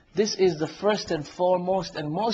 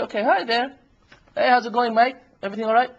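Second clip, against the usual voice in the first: nice, cheerful hello, pitched higher; cheerful greeting; 5 semitones higher, 3 dB louder, faster than usual. Acted. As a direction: greet her with put-on friendly cheer. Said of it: "nice, cheerful".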